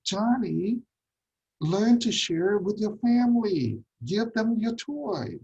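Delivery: a parent laying down the rule, slowing on the last line; scolding parent. Retold or imitated. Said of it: "you say".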